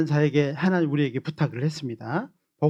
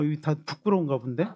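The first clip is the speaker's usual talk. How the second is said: usual speaking voice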